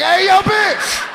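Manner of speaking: very high, angry rapper yelling; a rapper's shout. Retold or imitated. A rapper yelling at Tyson about his kids, shouted. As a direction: bark it back furious like the rapper. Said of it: "He's like".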